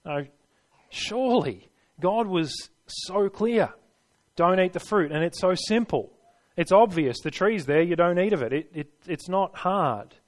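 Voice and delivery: mock proud confidence. Preacher mocking his own proud thought of obedience, lightly smug. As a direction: play your own proud inner voice, a touch smug. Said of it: "I know I have in my proud moments".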